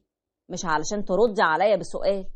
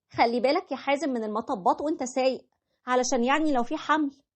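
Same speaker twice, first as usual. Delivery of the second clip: voiced a little higher as his wife; wife's voice; 5 semitones higher than usual. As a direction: play the wife, lightly raised pitch. Wife voiced in retold story. (صوت الزوجة بنبرة أعلى شوية)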